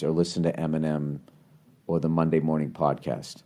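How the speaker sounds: gently laying it out to avoid a fight; calm and reasonable. Pretend. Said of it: "just sit down and say".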